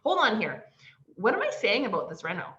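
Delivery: a sudden catch of herself; startled realisation. Retold or imitated. Catching her own words about the reno, high and loud hoots. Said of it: "And then I went".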